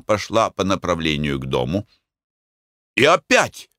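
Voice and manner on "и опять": high, loud furious jab; angry outburst. A narrator's reading. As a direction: Mick flares up again. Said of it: "продолжал Мик".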